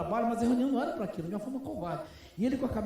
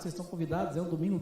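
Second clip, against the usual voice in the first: ordinary talk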